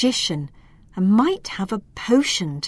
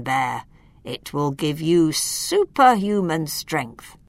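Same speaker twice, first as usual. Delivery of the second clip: put-on wise old wizard; 2 semitones lower than usual. Wizard explains magic objects.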